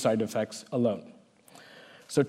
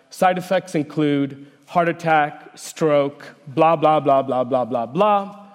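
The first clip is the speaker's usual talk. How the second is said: rushed ad disclaimer voice; hurried voiceover. Retold or imitated. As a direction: rattle it off like fine print. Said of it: "a hurried voiceover that blurts out".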